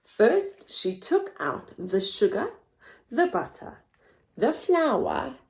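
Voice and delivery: lively picture-book narration; storybook voice; reading to children. Acted. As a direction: read it with wide-eyed expression for little ones.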